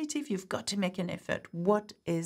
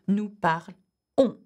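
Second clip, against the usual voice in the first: "nous parlons" said slowly and louder, each word clear; slow model; 5 dB louder, slower than usual. Shown as a demonstration. Teacher drilling the nous form for students, slow and clear. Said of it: "according to the subject pronoun".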